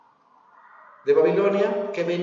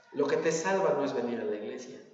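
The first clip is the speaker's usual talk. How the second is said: low, much softer delivery; hushed repetition; 6 semitones lower, 9 dB quieter, faster than usual. Real, not acted. Preacher repeats the teaching to the congregation, hushed and low. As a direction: drop the voice to drive the point home.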